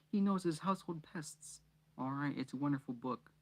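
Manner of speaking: high, gushing mother; gushing mum voice. Acted. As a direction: swoon over the author. Mrs Weasley voiced, gushing.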